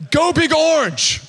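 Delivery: mock fierce cheer. Shown as a demonstration. A preacher mocking how scary his team's cheer sounds, hammed-up. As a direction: ham up the cheer as if it were terrifying.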